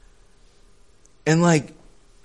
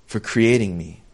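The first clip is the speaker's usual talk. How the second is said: quiet prayer; 6 semitones lower, 5 dB quieter than usual. Shown as a demonstration. Preacher modeling a prayer for the congregation, quiet and humble. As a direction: speak it low like a private thank-you. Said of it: "meaning say".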